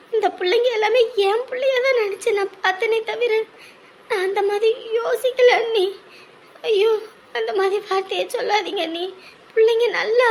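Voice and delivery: crying while pleading her innocence; tearful protest. Acted. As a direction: defend yourself through tears. Aunt hurt by accusation, weeping. (அழுதுகொண்டே மன்றாடுதல்)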